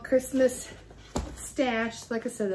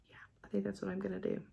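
whispered aside; 10 dB quieter, much faster than usual. Real, not acted.

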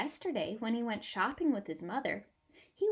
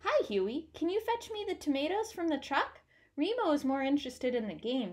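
baker's wife; 4 semitones higher than usual. Acted. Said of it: "said Missus Borchini".

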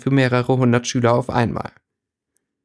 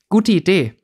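through tense lips; 6 semitones higher, 4 dB louder than usual. A narrator's reading. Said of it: "zwischen verkrampften Lippen hervor".

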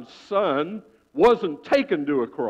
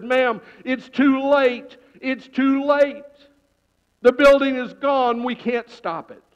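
higher, slow, heavy; slow grave chief; 7 semitones higher than usual. Acted. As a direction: break the bad news gently. Fire chief consoling mother.

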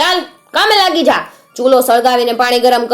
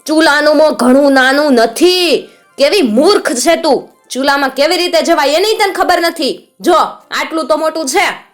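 high, loud roaring hag; witch roars; 8 semitones higher, 5 dB louder than usual. A narrator's reading. Witch roaring at the girl about the oven, high and loud. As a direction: bellow at the foolish girl. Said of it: "ડોશીએ ગર્જના કરી".

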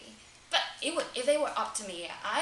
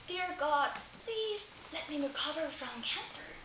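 higher-pitched acted plea; earnest acted prayer, raised pitch; praying to God; 5 semitones higher than usual. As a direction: plead upward as if in prayer. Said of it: "God's answer".

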